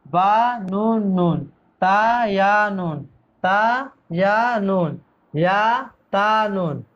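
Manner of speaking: drawn-out spelling of each letter; slow teacher recitation of letter names; slow letter drill. Shown as a demonstration. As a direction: chant the letter names slowly for pupils to repeat.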